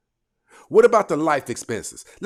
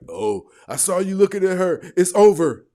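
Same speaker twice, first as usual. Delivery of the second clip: mock jealous woman; 5 semitones higher, 6 dB louder than usual. Mocking women accusing partner.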